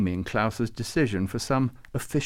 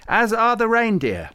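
much higher, louder eager blurt; excited; 12 semitones higher, 8 dB louder than usual. A narrator's reading. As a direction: burst in with excitement. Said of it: "said Farouk excitedly".

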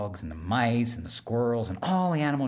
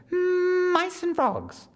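very high, buzzing insect voice; high whiny mosquito, eager to help; tiny mosquito voice; 5 dB louder, much slower than usual. Acted. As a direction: squeak it like a little mosquito.

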